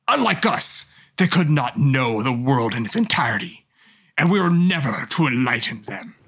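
low, slow, brooding villain monologue; brooding fake-deep mutter. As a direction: read it like a dark, self-serious diary. Reads Xehanort report aloud.

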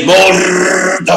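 Mordor said with a light Italian lilt; mock Italian accent. A light mock Italian Mordor from the films. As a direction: roll Mordor like a mad Italian professor. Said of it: "they used to say".

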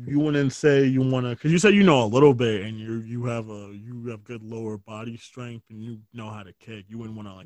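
gently patronizing, as if leading them on; condescending. Real, not acted. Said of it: "I hear the condescending tone".

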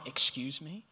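lightly voiced mom's indignant excuse me; mock the offended mom, rising; a hint of an offended mother. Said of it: "like that mom".

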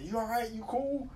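a hint of the patrolman; lightly voiced trooper. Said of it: "He said".

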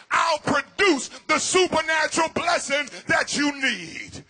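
full preaching. Acted.

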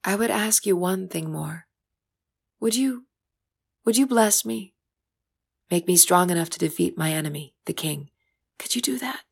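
voice breaking. Acted. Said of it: "Uma's voice broke".

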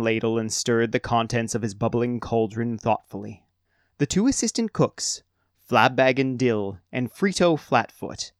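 steady storybook reading voice; story narration. A narrator's reading. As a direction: read it like a fantasy tale. Narrator reads the story aloud.

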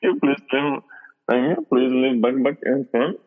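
joking Indian store clerk echoing; light Indian accent; mock Indian accent. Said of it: "pretty good Indian accent".

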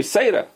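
"Seira" opening on s in place of t; taf as s. Shown as a demonstration. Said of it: "taf without dagesh is soft".

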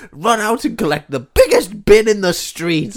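loud, high posh order; lordly command. Pretend. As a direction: boss him about like a toff. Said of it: "and I go".

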